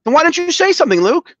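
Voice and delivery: high, indignant demand; exasperated outburst. Real, not acted. Exasperated complaint to cohost.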